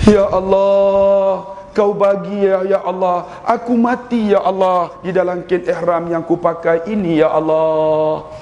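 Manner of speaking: slow, drawn-out, half-chanted plea; lightly voiced elderly pilgrim, pleading; old man's prayer. An old pilgrim at Arafah prays to die in his ihram, slow and half-chanted. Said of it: "Tuan-tuan tahu dia doa apa?".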